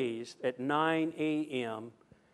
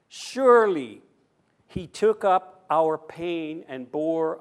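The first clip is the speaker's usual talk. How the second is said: slow, weighted reading with pauses between phrases; scripture reading. Acted. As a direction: proclaim the passage, leaning on key words. Reads scripture aloud to congregation.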